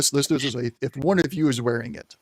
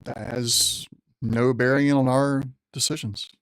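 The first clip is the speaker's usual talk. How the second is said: general's voice. Acted. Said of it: "trying to use the general's voice".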